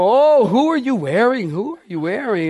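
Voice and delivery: breathless high reporter gush; gushing red carpet chatter. Retold or imitated. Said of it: "red carpet interviewer".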